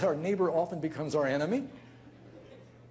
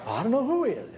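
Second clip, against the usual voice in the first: louder, higher, half-laughing protest; laughing exasperation; 6 semitones higher, 6 dB louder, faster than usual. Retold or imitated. Upset guest telling the host, laughing protest. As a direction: blurt it out in disbelief.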